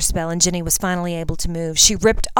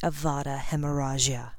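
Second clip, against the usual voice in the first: villain's quiet deadly spell; cold whisper; 3 semitones lower, 6 dB quieter than usual. Acted. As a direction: breathe the curse quietly. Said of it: "he coldly whispered".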